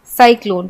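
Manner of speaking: साइक्लोन said with an s sound at the start; soft c as s. Shown as a demonstration. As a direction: say साइक्लोन with s, not k. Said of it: "तो हमने इसे पढ़ा साइक्लोन". (साइक्लोन में स की ध्वनि)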